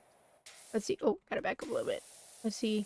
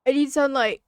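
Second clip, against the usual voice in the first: loud; 4 semitones higher, 11 dB louder than usual. Real, not acted. Trying to make herself sneeze.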